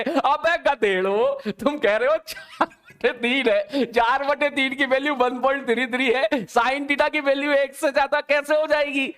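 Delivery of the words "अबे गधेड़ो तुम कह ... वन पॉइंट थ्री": laughing scolding. Real, not acted. Teacher mocks students' wrong answer.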